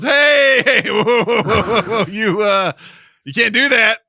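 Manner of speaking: high, loud stop-right-there; loud mock-panicked scolding; alarmed parental objection. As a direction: shout it down, imitating a startled parent. Acting out Jill's alarmed scolding.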